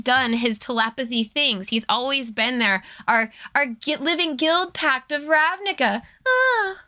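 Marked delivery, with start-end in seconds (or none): 3.1-6.8 hammed-up weepy wail, rising high at the end; fake-cry over a lost hero for laughs; mock sobbing. Podcaster mock mourning Jace, hammed-up sobbing.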